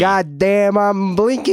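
squeaky joking voice; high mock voice. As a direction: pitch it way up jokingly. Mocking blinking request, high voice.

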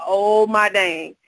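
fed-up mom begging for her moment; exasperated outburst. Retold or imitated. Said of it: "I know I'm about to snap".

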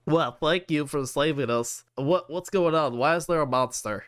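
put-on lightly slurred drunk talk; a touch of tipsy confusion; slurred drunk speech. Drunk man thanks his rescuers, lightly slurring. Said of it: "he's just basically slurring his words".

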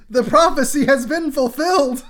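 high, loud mock-dramatic scream; screamed proclamation. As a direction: cry it out like a hammed-up doomsayer. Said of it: "Private Ryan screams".

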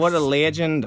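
hammed-up Australian enthusiasm; Australian accent. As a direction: play a cheery mock Aussie. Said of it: "or Australian".

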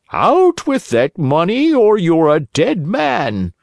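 slow, threatening killer voice; menacing assassin. A narrator's reading. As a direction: lean in with a death threat. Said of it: "said the taller of the two assassins".

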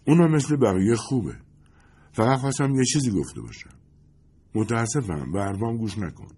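a hint of a starlet, pushing for gossip; Lindy's voice.

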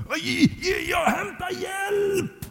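very high, drawn-out distant call. Acted. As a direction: call through the snow in a high, stretched voice. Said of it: "Och Uffe ropade". (gällt, utdraget rop på avstånd)

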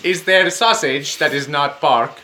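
slow put-on accent with rolled R's in "there" and "pork". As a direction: roll every R in "sausage that is not pork". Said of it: "You're rolling your R's".

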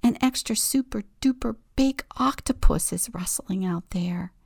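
fast, eager hushed telling; bubbling over in a whisper; excited whisper. Acted. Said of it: "Octopus whispers excitedly".

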